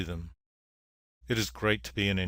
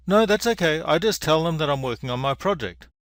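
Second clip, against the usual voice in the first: lightly voiced rabbit, starting high and loud; higher, mildly acted dismissal; reassuring rabbit; 5 semitones higher, 3 dB louder than usual. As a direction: brush off the worry in a raised rabbit voice. Rabbit brushing off bunny's worry.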